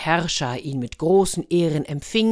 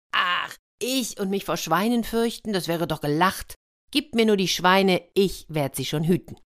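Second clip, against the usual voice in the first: cocky little hedgehog; 3 semitones higher than usual. Acted. Plays hedgehog scoffing at fear.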